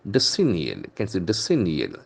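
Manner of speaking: "decennial" stressed on the second syllable, de-CEN-nial. Shown as a demonstration. Teacher showing where the accent falls, stress demo. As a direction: put the accent on CEN in "decennial", then let it fall. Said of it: "The accent falls from the second syllable".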